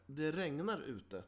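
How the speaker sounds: slow and deliberate, drawn out; slow cliché demo. Shown as a demonstration. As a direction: spell it out slowly like stating the obvious. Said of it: "Där man säger så här".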